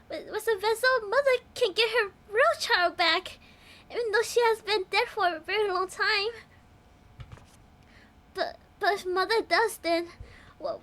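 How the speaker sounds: stuttering shy nerd voice; nervous stammering nerd. Pretend. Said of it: "a nerd voice".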